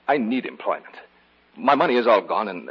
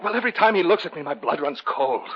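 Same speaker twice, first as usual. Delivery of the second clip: higher, slowing, tense with fear; rising dread; 9 semitones higher, 4 dB louder than usual. Acted. David telling the housekeeper the eye chills him. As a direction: let the horror creep in.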